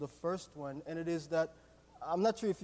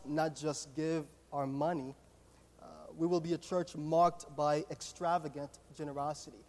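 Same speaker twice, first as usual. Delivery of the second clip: reading church values. Acted. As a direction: read each value out deliberately. Reads church values aloud.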